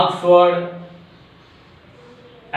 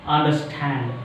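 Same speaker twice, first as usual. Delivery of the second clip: "understand" with the weight on the last syllable; stress on STAND; 3 semitones lower, 3 dB quieter than usual. Shown as a demonstration. Teacher giving exact pronunciation of understand, stress on STAND. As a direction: lean on STAND in "understand", falling pitch. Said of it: "Stand is the stressed one".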